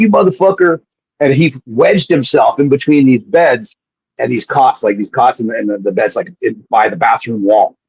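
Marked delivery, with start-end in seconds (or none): 0.0-0.8 laughing through the words, pitched up. Retelling how a friend reacted to having his foot tickled: imitating Jason laughing while cursing. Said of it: "he's laughing, but he's like".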